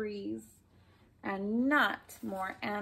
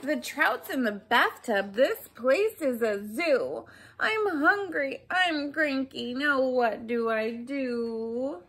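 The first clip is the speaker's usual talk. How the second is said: louder, whiny complaint; grumpy frazzled shopper; 4 dB louder than usual. Acted. Hungry woman complaining her house is a zoo, grumpy. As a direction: grumble like you're at your wits' end.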